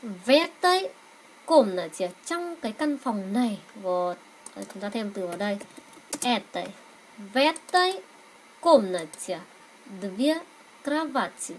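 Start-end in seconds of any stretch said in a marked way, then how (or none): 0.0-2.1 В этой run together as vetoy; linked reading. Shown as a demonstration. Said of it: "nối âm hai cái âm này với nhau". 7.3-9.4 В этой run together as vetoy; linked reading. Shown as a demonstration. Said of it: "các bạn nối âm giúp mình".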